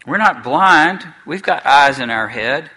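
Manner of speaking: insist, offended at being doubted; indignant. Acted. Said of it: "said Eustace indignantly".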